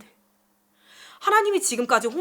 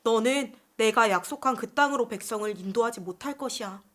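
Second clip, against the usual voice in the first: soft, sorrowful God voice, understated; a touch of sorrow in a hushed verdict; sad pronouncement; 2 semitones lower, 5 dB quieter than usual. Acted. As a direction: deliver sad news quietly, as God to Moses. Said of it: "아주 슬픈 말씀을 하셨어요".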